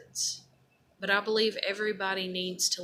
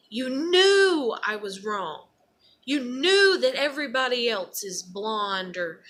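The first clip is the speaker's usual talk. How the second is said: angry scream to God; 3 semitones higher, 8 dB louder than usual. Pretend. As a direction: scream the accusation at God, pitch climbing. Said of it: "scream in anger to God".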